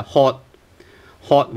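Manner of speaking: "hot" with the t stopped, not released; unreleased final t. Shown as a demonstration. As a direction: cut "hot" off with a silent t. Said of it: "without T sound".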